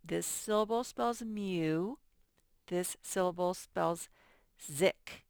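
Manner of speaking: "mew" then "zick" with a buzzing z; sounding out syllables. Shown as a demonstration. Teacher to class, stressing the z sound in music. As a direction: stretch "zick" so the z buzz is clear. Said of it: "makes a little Z sound".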